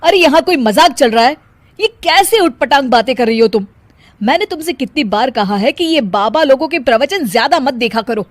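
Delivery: fed up with her nonsense, tell her off; irritated. Acted. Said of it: "Vinod चिढ़ जाता है". (पत्नी को झुंझलाकर डाँटते हुए)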